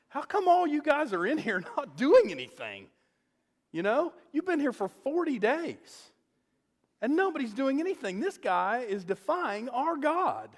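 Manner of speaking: high-pitched, incredulous reproach; indignant challenge. Retold or imitated. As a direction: retell it as a challenge to idle soldiers. David challenges the idle army.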